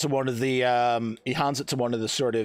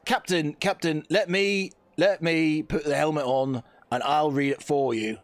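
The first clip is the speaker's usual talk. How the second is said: NCO voice; 4 semitones higher than usual. Acted. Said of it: "the N C O basically says".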